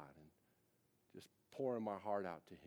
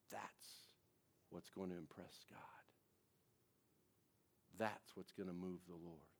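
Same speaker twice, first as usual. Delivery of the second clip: hushed whisper; 4 semitones lower, 8 dB quieter than usual. Acted. Preacher whispering to the congregation about God, whispered. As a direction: drop to a breathless whisper.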